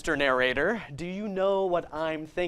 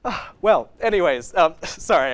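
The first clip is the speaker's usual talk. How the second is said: giddy; 6 dB louder than usual. Acted. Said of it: "I'm all giddy now".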